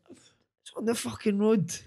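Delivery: put-on high, drawn-out child's retort; imitated indignant boy. Dad repeating his son's answer for laughs, high slow mimicry.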